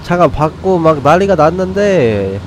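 brisk play-by-play caster voice; sports commentator. Acted. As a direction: call the match like a live caster. Mock commentary on game.

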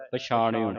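ਪਛਾਣਿਓ with an open "o" at the end; open oora. Shown as a demonstration. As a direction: finish ਪਛਾਣਿਓ on "-eyo". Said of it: "ਊੜੇ ਦਾ ਮੂੰਹ ਖੁੱਲ੍ਹਾ ਹੈ".

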